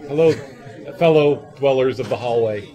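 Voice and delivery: ordinary delivery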